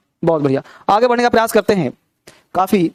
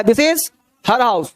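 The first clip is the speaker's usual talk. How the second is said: slow dictation; much slower than usual. Shown as a demonstration.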